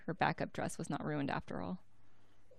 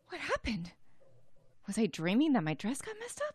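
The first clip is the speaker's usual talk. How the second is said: high, bewildered small voice; high squeaky character voice, puzzled; high Winley voice; 7 semitones higher than usual. Acted. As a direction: ask in a startled little voice.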